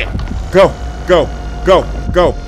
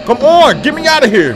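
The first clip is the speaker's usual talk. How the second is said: louder, rising urgent calls; panicked urging; 3 semitones higher, 5 dB louder than usual. Real, not acted. Player to companion as monster comes, panicked urging. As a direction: urge them to get out, panicked. Fleeing monster in horror game.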